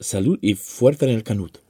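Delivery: mit katalanischer Aussprache vorgetragen; katalanischer Trinkspruch. Shown as a demonstration. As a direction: den Trinkspruch katalanisch sprechen, Zunge betont. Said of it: "schön, wie du das machst mit der, mit der Zunge". (Trinkspruch auf Katalanisch, genüsslich ausgesprochen)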